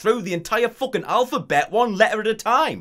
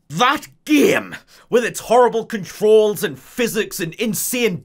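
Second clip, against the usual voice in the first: louder, higher exasperation; exasperated; 4 semitones higher, 4 dB louder than usual. Acted. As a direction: spit out the word game. Venting about miserable game.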